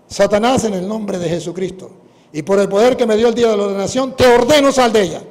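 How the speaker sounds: loud, rising command to Satan; commanding exorcism. Retold or imitated. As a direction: order the demon out with full authority. Exorcismo, ordena al demonio. (orden de exorcismo, fuerte y creciente)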